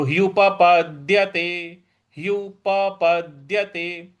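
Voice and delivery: ह्युपपद्यते with the first प said with its full vowel; full p sound. Shown as a demonstration. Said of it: "प पूरा बोलना है". (प पूरा बोलते हुए ह्युपपद्यते)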